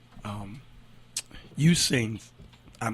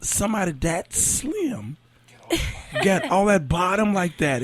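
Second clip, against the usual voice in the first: amazed exclamation; 5 semitones higher than usual. Retold or imitated. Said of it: "and I said".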